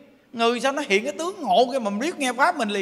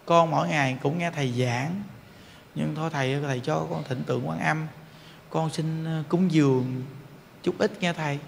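lower, softer, timid plea; humble young man; 7 semitones lower, 5 dB quieter than usual. Retold or imitated. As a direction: shyly ask the monk a favour. Young man offers donation humbly. (chàng trai rụt rè, nói khẽ và thấp giọng)

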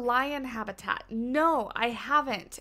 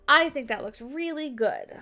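louder, brighter repeat; 4 semitones higher, 6 dB louder than usual. Real, not acted. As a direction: announce it proudly.

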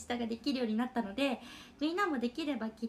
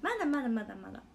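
quick repeat; faster than usual. Real, not acted. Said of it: "まだ酔ってないはず".

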